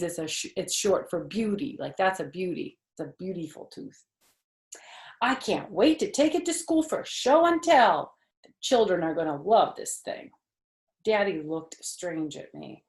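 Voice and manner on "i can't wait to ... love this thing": put-on higher, eager kid voice; excited little girl. Junie B tells her family her plan, excitedly. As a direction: bubble over about show and tell.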